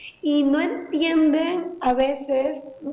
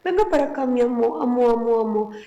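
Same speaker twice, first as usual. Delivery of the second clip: put-on sweet-talking a baby. Shown as a demonstration. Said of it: "con esa entonación".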